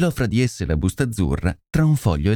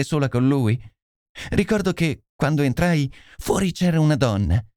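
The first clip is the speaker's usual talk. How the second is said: lightly higher lady's voice; troubled lady recounting; 5 semitones higher than usual. Acted. (signora turbata che racconta)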